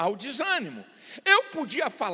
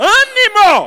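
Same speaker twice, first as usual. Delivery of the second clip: punched-out, forceful ânimo, very high and very loud; 10 semitones higher, 17 dB louder than usual. Showing listeners a word to repeat, strong emphasis on ânimo. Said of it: "de vez em quando eu vou falar assim".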